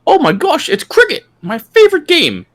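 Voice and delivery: put-on high, hammy British accent; mock British accent. Cohost joining the joke, in a high mock British accent. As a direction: play a jolly cartoon Brit.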